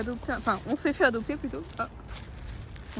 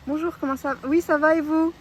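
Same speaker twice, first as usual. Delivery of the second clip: voix polie; 3 semitones higher than usual. Retold or imitated. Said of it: "c'est là que t'as été choquée".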